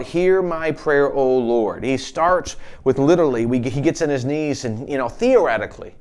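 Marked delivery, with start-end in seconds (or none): 0.0-1.8 slow, drawn-out cry to God, not a real scream; mock cry out. Preacher voicing David calling on God, restrained cry out. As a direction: call it out slowly, with mild force. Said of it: "So he screams out".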